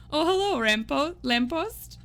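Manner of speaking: high, playful sing-song hello; mock-sweet high call; silly high greeting. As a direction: greet the viewer in a goofy squeaky voice.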